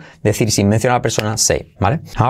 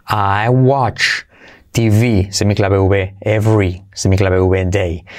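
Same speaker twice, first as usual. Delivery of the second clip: broken-down model; 4 semitones lower, slower than usual. Shown as a demonstration. Teacher breaks sentence down.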